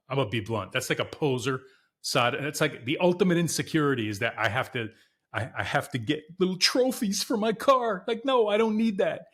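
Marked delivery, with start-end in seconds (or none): 5.6-9.3 high-pitched mocking of trophy seekers; joking mockery. Owner ribbing car-show trophy chasers for viewers, joking mockery. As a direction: poke fun in a raised, put-on voice. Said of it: "I'm being funny".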